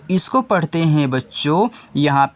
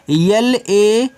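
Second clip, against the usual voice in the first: slow spelling out; 3 semitones higher, much slower than usual. Shown as a demonstration. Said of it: "इसको पढ़ते हैं लैंप".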